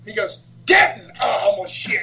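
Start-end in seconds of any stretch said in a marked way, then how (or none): 0.7-1.1 loud, high retold name call. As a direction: bellow the next wrestler's name. Acting out the boss calling names out.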